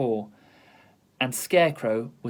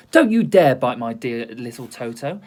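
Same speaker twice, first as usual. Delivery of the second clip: loud, indignant telling-off; girl protecting her dog, shouting; scolding shout; 7 dB louder than usual. Acted. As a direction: wag a finger and scold. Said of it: "she was shouting".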